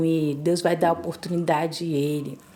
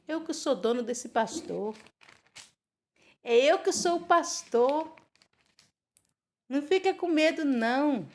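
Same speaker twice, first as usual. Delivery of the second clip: soft, higher-pitched, reassuring voice of God; God as comforting shepherd; 4 semitones higher, 4 dB quieter than usual. Acted. God reassures a young man rebuked by his pastor, tender and soft. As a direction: gently console and protect, lifted soft voice.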